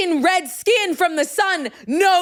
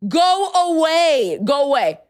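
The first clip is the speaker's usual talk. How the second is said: dismissive go away; 3 semitones higher, 4 dB louder, slower than usual. Retold or imitated. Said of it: "And I was like".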